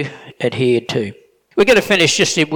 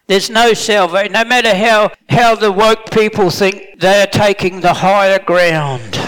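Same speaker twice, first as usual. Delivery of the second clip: fervent preaching; 5 semitones higher than usual. Real, not acted. Preaching rises to full force.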